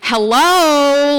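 loud, irritated hello; annoyed hello. Retold or imitated. Calling to a rude stranger who won't answer, annoyed. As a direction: call out, miffed at getting no reply. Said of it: "like, kind of annoyed".

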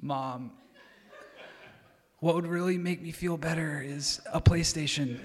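fragile, sickly little voice put on for sympathy; mock-pitiful invalid plea; Tiny Tim. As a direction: play up being weak and ailing to get a present. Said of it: "just in the most fragile, sickly, like, Tiny Tim voice".

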